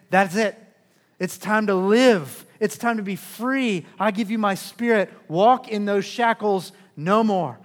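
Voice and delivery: proclaiming Jesus. Acted. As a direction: ring it out like a release. Risen Jesus proclaims freedom.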